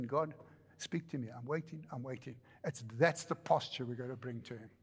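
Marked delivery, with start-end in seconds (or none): 0.0-2.4 softer and softer, leaning in; eager waiting prayer. Retold or imitated. Believer on tiptoe begging God to speak, hushed. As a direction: whisper it up on tiptoe. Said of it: "tippy toes and saying".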